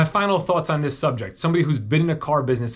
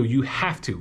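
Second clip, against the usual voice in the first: "have" given the weight, then falling away; stress on have; slower than usual. Shown as a demonstration. Dealer repeating to buyers, stressing "have". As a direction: hit "have", let "to" drop. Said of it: "I stress the word have".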